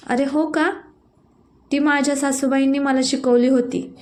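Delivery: light up at the news; a mother's happy surprise at praise of her recipe; pleased surprise. Acted.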